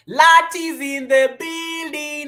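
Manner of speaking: high, slow, loud announcer call; hype announcement. Real, not acted. Streamer announcing a viewer to the chat, hype host style. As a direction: announce her like a star entrance.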